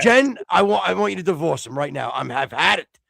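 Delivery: exasperated outburst ending high and loud; mock fed-up rant. Host urges Jen to divorce the co-host, mock fed-up. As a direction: play at having had enough.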